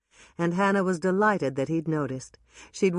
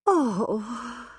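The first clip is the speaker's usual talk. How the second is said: sigh; 7 semitones higher than usual. A narrator's reading. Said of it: "Dolores sighed".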